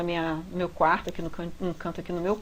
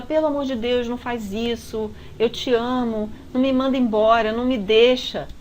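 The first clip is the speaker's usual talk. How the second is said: pleading woman; 2 semitones higher, 4 dB louder than usual. Retold or imitated. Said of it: "ela gritava".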